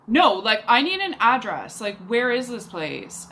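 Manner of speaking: mock testy insistence; retold anger. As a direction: imitate an irritated date demanding an answer. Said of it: "he's still angry and says".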